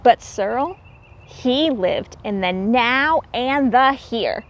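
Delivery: lilting read-aloud storybook voice; rhyming story narration. A narrator's reading. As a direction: read the rhymes to the children with a gentle lilt.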